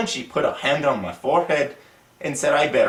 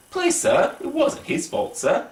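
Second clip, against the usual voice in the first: put-on much higher, whispered plea of a small boy; pleading schoolboy; 12 semitones higher than usual. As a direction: beg the teacher timidly.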